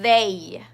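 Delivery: they with a long buzzing TH first; they, tongue between teeth, throat vibrating on a drawn-out TH; voiced TH. Shown as a demonstration. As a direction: hum through the TH before releasing "they".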